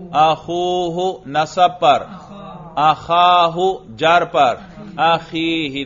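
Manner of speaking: اخوہ, اخاہ, اخیہ sung out slowly, each ending stretched; case forms shown. Shown as a demonstration. Student demonstrates the case forms for the teacher. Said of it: "کر کے دکھاؤ".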